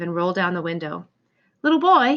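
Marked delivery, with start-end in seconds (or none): 1.6-2.2 put-on higher, louder call to the boy. Edgar calling from his cab to the little boy, raised voice. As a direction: call across from the cab window. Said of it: "he called".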